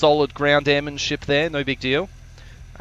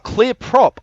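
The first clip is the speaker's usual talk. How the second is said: raised, louder call-out; retold yell; 9 semitones higher, 6 dB louder than usual. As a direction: call it out as you once yelled it. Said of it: "I yelled out".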